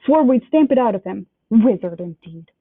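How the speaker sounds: a scornful uncle spitting out indeed; understated angry uncle scorn; mild angry sneer. Acted. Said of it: "looking very angry".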